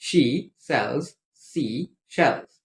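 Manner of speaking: word by word, with gaps; careful, unhurried recitation; measured tongue-twister pace. Shown as a demonstration. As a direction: model each word separately for learners. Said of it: "read it at the correct pace".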